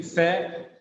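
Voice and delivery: "secretary" with the "a" sounded; four-syllable pronunciation. Shown as a demonstration. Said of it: "It seems to have four syllables".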